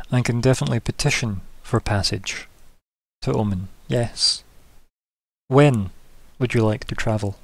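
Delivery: lightly voiced, composed governor, softening; governor character. Governor answers a plea for passage, composed and measured. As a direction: grant the request with measured formality. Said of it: "She goes".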